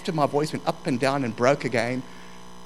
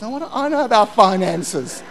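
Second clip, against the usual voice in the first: retold panic; 4 semitones higher, 5 dB louder than usual. Retold panic at being asked.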